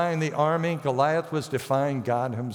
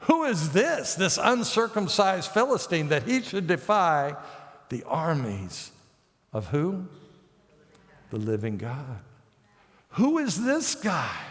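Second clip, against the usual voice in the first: indignant David. Retold or imitated. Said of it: "he goes".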